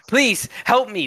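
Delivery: put-on high, pleading young man; begging man. Trapped young man pleads to passing adventurers, begging. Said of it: "the man begs".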